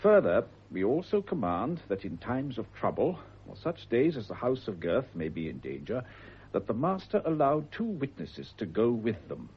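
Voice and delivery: put-on reading an old clause aloud, measured; formal charter reading. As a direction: read it out like a solemn legal document.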